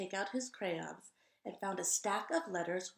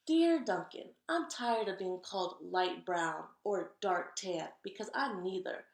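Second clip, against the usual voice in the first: louder, indignant crayon; proud beige crayon; 4 dB louder than usual. Acted. Beige Crayon complains to Duncan, louder and indignant. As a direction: stand up for beige with pride.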